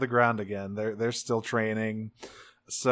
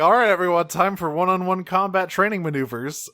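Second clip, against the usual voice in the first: Megatron; 6 semitones higher, 5 dB louder than usual. Retold or imitated. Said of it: "It's Megatron saying".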